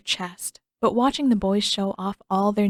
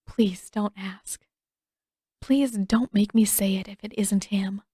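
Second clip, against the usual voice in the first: raw whisper. Acted. Katara begging Toph in a hushed, raw whisper. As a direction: beg her in a raw whisper. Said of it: "Her throat is raw".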